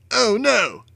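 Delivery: high panicked cry of a thug; frightened scream. A narrator's reading. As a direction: yelp it in sudden fear. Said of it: "one of the hoodlums screamed".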